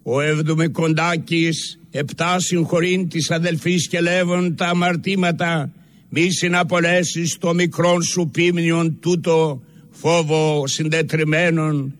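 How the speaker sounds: evenly pitched, reverent supplication, phrase by phrase; solemn prayer recitation. Real, not acted. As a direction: intone it as a solemn penitential prayer in church. Reads a penitential church prayer aloud.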